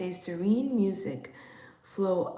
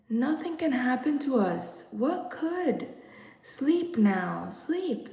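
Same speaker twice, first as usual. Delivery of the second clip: reassuring; 5 semitones higher than usual. Acted. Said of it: "They had to be soothed".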